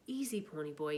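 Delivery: low, gentle reassurance; softly. Acted. Friend gently calming the crying boy. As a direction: soothe him. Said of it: "he said softly".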